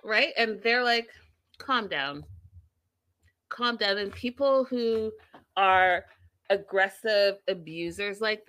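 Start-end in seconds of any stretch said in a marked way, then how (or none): 1.6-4.0 soft, unbothered imitation; quietly retold calm-down; calm retort. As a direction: keep it cool and collected. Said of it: "keep it calm and cool".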